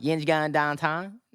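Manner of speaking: mock Pittsburgh yinzer twang, drawn out; slow Pittsburgh-accent question, lifting at the end. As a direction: imitate Pittsburgh locals asking a question. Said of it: "they're like".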